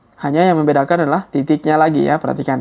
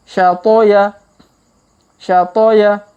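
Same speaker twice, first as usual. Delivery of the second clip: faster reading; 4 semitones higher, 4 dB louder, slower than usual. Shown as a demonstration. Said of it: "Kalau dipercepat".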